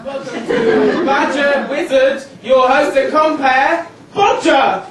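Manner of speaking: low, cheesy game show host welcome. Acted. Kids playing game show, host welcomes the audience. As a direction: greet the audience like a tacky TV host.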